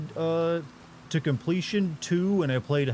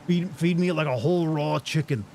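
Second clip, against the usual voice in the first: loud, raised zoo animal voice; talking animal; 4 semitones higher, 4 dB louder than usual. Pretend. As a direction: demand food like a hungry beast. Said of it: "I'm an animal".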